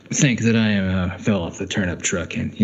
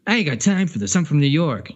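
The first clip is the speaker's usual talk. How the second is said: higher-pitched mock New Yorker; terrible New York accent; 4 semitones higher than usual. Imitating a busy New Yorker, in a terrible New York accent. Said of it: "that was a terrible accent".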